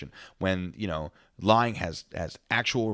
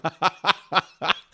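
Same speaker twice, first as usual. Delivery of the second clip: big burst of laughter; cracking up loudly; 11 semitones higher, 7 dB louder than usual. Real, not acted. Laughing at courtroom moment.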